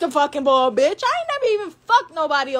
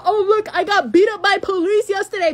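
laughing mock quote; 3 semitones higher, 4 dB louder than usual. Mocking the girl's boast.

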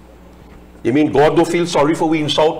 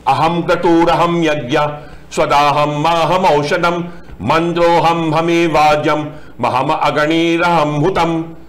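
Sanskrit verse recitation; 2 semitones higher than usual. Acted. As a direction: intone the Sanskrit verse, steady and measured.

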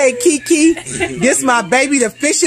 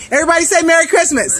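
calling out; 6 semitones higher, faster than usual. Real, not acted. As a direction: whip the crowd into a cheer. Rallying family for holiday cheer.

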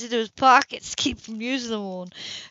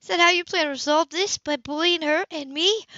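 higher, louder indignant challenge; Sybil indignant; 9 semitones higher, 4 dB louder than usual. A narrator's reading. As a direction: confront him firmly. Sybil protests bullying.

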